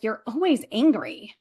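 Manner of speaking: imitating a husband's complaint, stress on "always"; mildly accusing, falling at the end; retold reproach with swooping pitch; husband's accusation. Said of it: "he's like".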